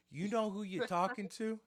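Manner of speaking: high-pitched mobster challenge; goomba mode. Retold or imitated. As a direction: ask it like a self-important wiseguy. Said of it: "I went full Goomba mode".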